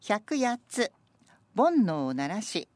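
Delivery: slow, measured haiku reading; poem recitation. Acted. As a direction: read each line slowly, pausing. Reads listener senryu aloud.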